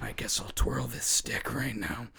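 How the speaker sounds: a mumbled, sarcastic inmate voice; deadpan sarcasm. Retold or imitated. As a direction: grudgingly agree while mocking the stick. Carl sarcastically accepting the baton.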